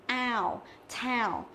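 "tao" drawn slowly through its glide; ao diphthong. Shown as a demonstration. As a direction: sound out "Ao", then "tao", gliding A to U. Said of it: "đây là âm ao".

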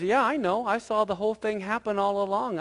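lightly acted grandma; knowing Grandma. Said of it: "And Grandma says".

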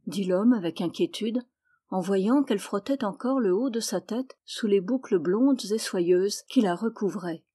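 ordinary delivery

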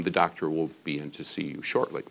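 hushed, careful staff voice; quiet. Retold or imitated. Staff member quietly telling the couple the doctor is coming. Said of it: "got very, very quiet".

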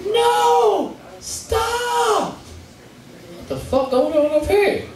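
high, shouting white man voice; panicked white man. Retold or imitated. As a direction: yell high in panic, like a bystander. White man yells at bridge.

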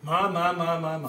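mild presidential speech voice with stately pauses; Barack Obama impression. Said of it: "Thank you, Barack".

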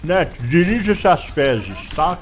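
slow, loud mock-formal put-down; mock formal insult. Real, not acted. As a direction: scold slowly with fake politeness. Xinga a internet. (insulto formal e lento)

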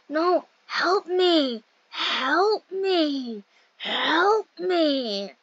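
drawn-out mock cry for help; mock plea. Player jokingly begging for help, mock plea. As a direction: wail it slowly, playfully helpless.

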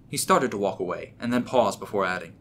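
ordinary delivery

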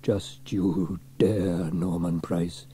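slow, low warning tone. Acted. Trevor warns cheeky Norman, slowly and sternly. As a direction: warn him off the concrete. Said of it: "Trevor warned".

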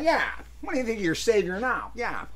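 a hint of a gangster growl, mocking; lightly imitating the tough guy sneer; Edgar G. Robinson impression. Imitating Edgar G. Robinson's line for Tom. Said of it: "Remember when Edgar G. Robinson".

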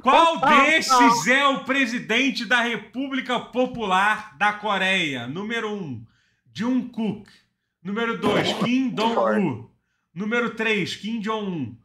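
quiz show host. Acted. Reading a quiz question on stream.

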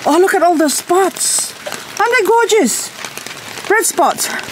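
very high delighted coo. Acted. Gardener coos over red spots on her succulent. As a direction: admire the spots like a baby's cheeks. Cooing at red-spotted plant.

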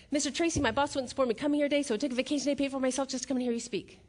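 retold rushed speech after a deep breath; one-breath blurt. Fan greeting a famous speaker, rushed in one breath. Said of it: "took a deep breath".

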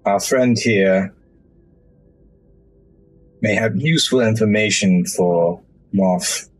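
fake French. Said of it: "that's French again".

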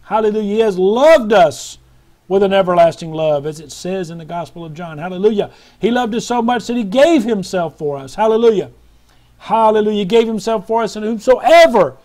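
loud, exultant preacher rising on key words; impassioned preaching. Real, not acted. Preacher praising God's love to the faithful, impassioned preaching. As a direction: proclaim it with swelling force.

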